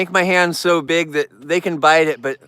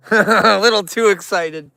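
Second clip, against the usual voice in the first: laugh, then say it higher; amused chuckle; 4 semitones higher, 3 dB louder than usual. Real, not acted. Man amused by an excited bear, chuckling. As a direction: chuckle into the words, tickled.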